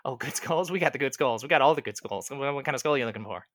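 jittery skull digger. Acted. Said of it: "he's kind of vibrating a little bit".

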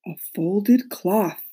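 slow, distant ghostly voice; unearthly voice. Acted. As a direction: speak it like a faraway ghost. Ghost Queen speaks slowly.

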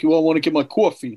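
lightly put-on New York accent; a hint of New York "cawfee". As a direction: say coffee like a New Yorker. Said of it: "like, from New York".

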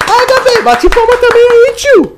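high, loud excited call; excited shout. Real, not acted. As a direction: shout it out hyped up. Host excitedly calls for applause.

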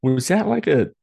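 high-pitched incredulous reenactment; baffled disbelief. Retold or imitated. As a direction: act out stunned confusion, voice climbing very high, stretching "stroke". Acting own baffled reaction to sneeze.

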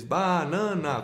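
"banana" drawn out as ba-na-na; separando sílabas. Shown as a demonstration. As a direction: count out each syllable of "banana". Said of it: "ele separou a sílaba". ("banana" bem dividida em ba-na-na)

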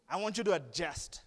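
laughing through the words; laughing repeat. Shown as a demonstration. Preacher laughing at his own line to the congregation. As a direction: laugh it out playfully.

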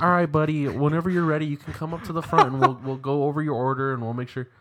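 hammed-up patient clerk; worker talking down. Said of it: "Dude legit thought I was disabled".

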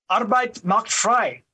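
slowed German-accented delivery. Shown as a demonstration. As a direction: attempt your best German accent. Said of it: "with my best German accent".

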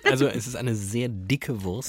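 laughing through the words; slow, laughing. Real, not acted. Laughing after joke.

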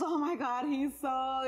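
imitating a gushing fan, high and loud; retold fangirl gush. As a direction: gush in mock awe. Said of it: "like, gushing".

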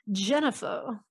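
mild imitation of a Cajun grandmother's accent. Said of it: "I'm trying to do, like, a good Cajun accent".

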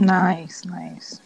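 whispered. Real, not acted. Soft aside approval.

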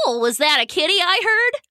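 put-on high, curious girl calling; a sweet girl wondering aloud; high curious call of a young girl; young girl's voice. Girl hears kitten cry.

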